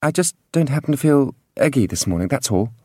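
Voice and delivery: put-on high, light young woman voice; Farrelyn's voice. A narrator's reading. Farrelyn speaking at breakfast.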